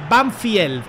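"Banfield" as "ban-FYEL", testing it; pronunciation demo. Shown as a demonstration. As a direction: try out "Banfield" with an "ie" glide. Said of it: "¿Se dice Banfield?". ("Banfield" con diptongo, "banfiel")

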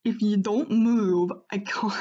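loud, shaky attempt at a Scottish accent breaking off. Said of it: "I imagine the dogs having Scottish accents".

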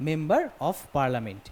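teacher stretching the phrase for students; slow demo. Shown as a demonstration. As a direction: stretch out "member of parliament" so the "ম" sound is heard first. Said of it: "ম এর উচ্চারণ আগে আসছে".

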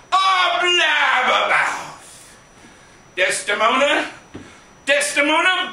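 lightly voiced blustering Gleason; a hint of brash Gleason hamming Shakespeare; Jackie Gleason. Jackie Gleason doing Shakespeare, lightly voiced and hammed-up. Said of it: "Jack Gleason doing Shakespeare".

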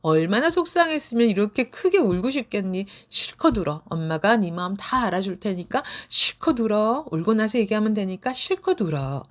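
put-on tender, letting the child cry; comforting mom. Shown as a demonstration. Mother comforting a crying child, gentle and warm. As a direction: soothe gently, giving permission to cry. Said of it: "이렇게 먼저 말씀해 주시는 게".

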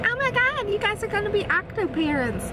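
high, loud mock shock; excited. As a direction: squeal it like a stunned viewer. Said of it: "that's gonna be like".

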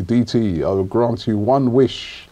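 put-on slow, lightly accented voice of God. Host playing God in a dream, lightly put-on accent. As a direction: grant it slowly in a mock divine accent. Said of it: "Where's that accent come from?".

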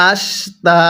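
"আশ" short, then "তা" held long; one-alif stretch. Shown as a demonstration. Teacher showing learners how to read, "তা" lengthened after "আশ". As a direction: say "আশ তা" in pieces, drawing out "তা". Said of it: "এক আলিফ টানতে হবে".

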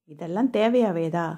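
tired, fed-up sigh of a question; weary. Acted. Woman asking colleague about the party, wearily. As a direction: ask it as if already bored. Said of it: "என சலிப்பாக கேட்டாள்".

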